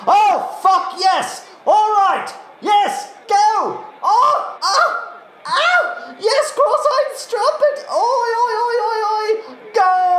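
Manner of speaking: very high, squealing shouts; ecstatic race cheering. Acted. Eliza cheers her horse to the finish, ecstatic high screaming. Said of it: "I just get so excited during these races".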